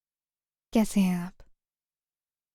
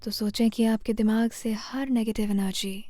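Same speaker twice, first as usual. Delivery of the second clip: guided meditation. Real, not acted. Meditation guide leading listeners through posture and breath to heal fear, calm guided meditation. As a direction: guide them gently, phrase by phrase, leaving space to breathe.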